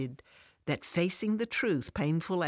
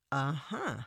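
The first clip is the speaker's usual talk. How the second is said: cautious. Acted. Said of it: "Alice cautiously responds".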